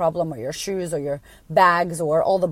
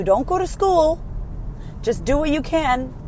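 mock glib advice; 7 semitones higher than usual. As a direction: pitch it way up and draw it out, mocking. Mocks glib advice she rejects.

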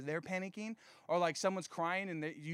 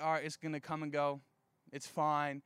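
lower, easygoing shrug of a delivery; unbothered; 4 semitones lower than usual. Acted. Preacher voices people who take storms lightly, unbothered. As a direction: wave it off casually. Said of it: "another side of a storm coming".

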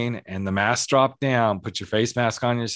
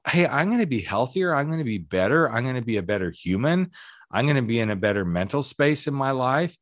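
upbeat resolve; 2 semitones higher than usual. Retold or imitated. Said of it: "it's about".

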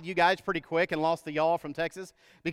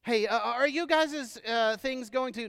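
mock you guyses speaker; 2 semitones higher, 3 dB quieter than usual. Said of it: "I never could get into the you guyses thing".

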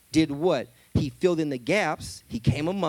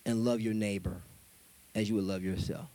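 soft low correction; 8 semitones lower, 6 dB quieter than usual. Acted. Jesus adds commandment softly.

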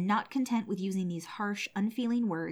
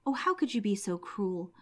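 subdued lament. Acted. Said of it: "he was terribly distressed".

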